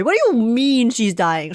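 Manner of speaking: ordinary talk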